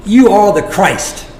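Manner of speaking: firm, weighty declaration; blurted out. Acted. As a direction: proclaim it firmly, drawing it out. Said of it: "then Peter blurted".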